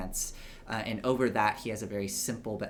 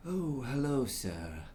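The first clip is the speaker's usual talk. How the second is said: startled servant greeting; 3 semitones higher, slower than usual. Acted. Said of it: "you suddenly hear a voice go".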